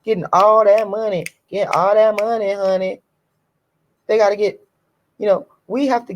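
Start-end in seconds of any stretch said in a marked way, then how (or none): 0.0-3.0 high, teasing sing-song mimicry; mock them in a taunting lilt; lightly mocking singsong voice. Mocking the smiling money-getters.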